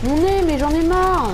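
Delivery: a sudden high, loud, drawn-out cry of fed-up pain; exasperated outburst. Real, not acted. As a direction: slowly shout out his fed-up pain. Douleur au nez, ras-le-bol. (cri exaspéré, aigu et fort)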